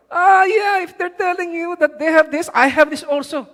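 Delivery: high, loud mock boast; acted boasting retort. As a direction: play a boaster one-upping the others. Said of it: "the way they're speaking it".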